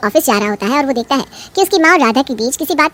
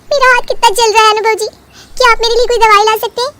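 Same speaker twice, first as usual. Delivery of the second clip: 1 whiny wife; 5 semitones higher than usual. Acted. Bahu whines to husband.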